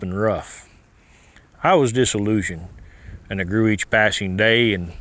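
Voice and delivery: rhythmic cowboy poetry recital; poem recitation. Acted.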